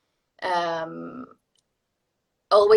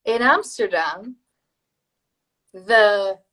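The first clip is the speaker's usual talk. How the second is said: slow, careful repeat; measured, stretched phrasing; tongue-twister recitation; 5 dB louder, much slower than usual. Shown as a demonstration. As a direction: try out the vocal drill deliberately. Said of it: "Would you like to try it?".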